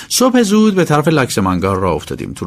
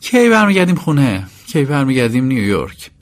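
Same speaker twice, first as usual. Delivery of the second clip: impatient asking; 2 semitones higher than usual. Acted.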